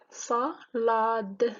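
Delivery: SALADE broken up as "sa - la - de"; split into syllables. Shown as a demonstration. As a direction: say salade in separate beats, "sa, la, de". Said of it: "c'est trois syllabes". (salade découpé en syllabes, « sa - la - de »)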